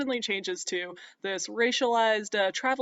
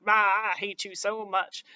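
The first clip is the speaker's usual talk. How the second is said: slow, grudging mock groan; slow resentful mock mumble; grumbling merchant; 3 dB louder, slower than usual. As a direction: drag it out like a trapped groom. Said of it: "and he's like".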